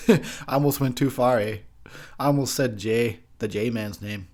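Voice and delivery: a hint of a Canadian accent, every line ending in eh; mildly put-on Canadian accent, mock-pious; Canadian impression. Canadian accent, drunk reviewer mocking his own near-swear. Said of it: "That's my Canadian impression that I apparently have".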